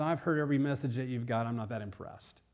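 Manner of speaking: put-on jaded listener, voice dropping away; acted unimpressed churchgoer, arms crossed. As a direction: grumble it dismissively, sinking in pitch. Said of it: "We cross our arms and say".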